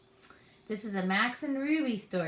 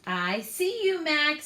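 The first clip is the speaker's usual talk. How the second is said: high, louder sing-song calling; teasing call; 6 semitones higher, 4 dB louder than usual. Acted. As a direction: pretend she's spotted him. Said Ruby.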